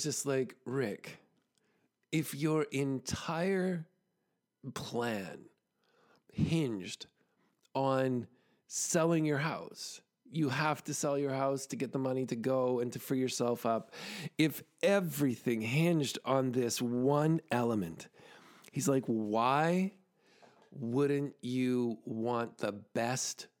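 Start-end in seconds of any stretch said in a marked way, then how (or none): 0.7-18.1 slow, halting disbelief with weighty pauses; retold incredulity, measured and deliberate; incredulous. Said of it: "he was incredulous". 19.1-23.5 slow, low disbelieving question; retold incredulity, deliberately spaced out; incredulous. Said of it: "he was incredulous".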